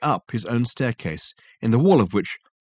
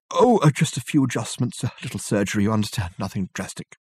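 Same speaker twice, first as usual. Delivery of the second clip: evasive Reg. Acted. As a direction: play the surgery down.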